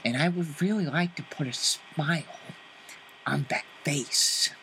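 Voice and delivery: Joker menace. Acted. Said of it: "Joker lines quoted to guest".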